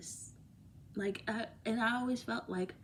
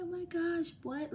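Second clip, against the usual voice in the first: high, stunned gasp of disbelief; shocked; 9 semitones higher than usual. Retold or imitated. Vlogger retelling seeing who sent money, shocked. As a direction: jolt up in pitch, amazed.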